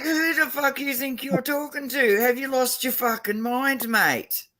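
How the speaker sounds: high, hammed-up furious challenge; imitated angry friend. Imitating her angry friend confronting the cocky attackers, high mock fury. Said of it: "He's like".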